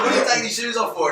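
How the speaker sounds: high and loud, cracking up; asking through laughter; laughing disbelief. Retold or imitated. He asks his mate, laughing, why he takes shoes.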